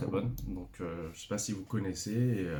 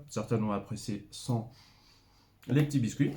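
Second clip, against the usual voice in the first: talking with a mouthful of biscuit; words round a bite, mouth full. Real, not acted. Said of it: "Je suis désolé, je parle la, la bouche, pleine".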